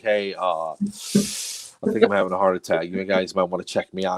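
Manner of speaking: low, offhand, acted nonchalance; casual, low-pitched understatement; breezily self-assured. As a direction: report an emergency as if it were nothing. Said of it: "like I own the place".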